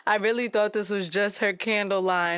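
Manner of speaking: amused reading of own notes; laughing while reading. Real, not acted. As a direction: read it out, breaking into a laugh. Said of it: "I'm laughing 'cause my notes say".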